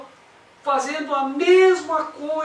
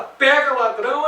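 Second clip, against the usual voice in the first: raised, higher yell of alarm; imitated street cry; 4 semitones higher, 5 dB louder than usual. Someone in the street yells at a thief, imitated shout. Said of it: "alguém grita".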